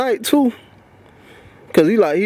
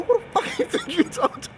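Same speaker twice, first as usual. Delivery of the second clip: high, raised voice at the boss; angry retold yell; 12 semitones higher, 3 dB quieter than usual. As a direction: yell it back at him, offended. Confronting the supervisor, retold.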